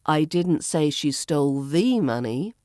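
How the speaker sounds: "the" emphasized as "thee", rise at the end; single out "the", pronounced thee; stress on THE. Shown as a demonstration. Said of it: "put the stress on a different word".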